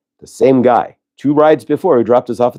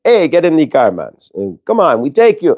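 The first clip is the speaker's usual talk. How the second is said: put-on Jamaican accent; 2 semitones higher than usual. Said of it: "He sounded Jamaican ... I'm trying to get his accent, but it's not right".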